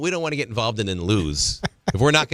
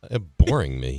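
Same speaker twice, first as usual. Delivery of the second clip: pretending to sleep; 7 semitones lower, slower than usual. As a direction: fake sleepy mumble, slow and low. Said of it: "he's fake snoring".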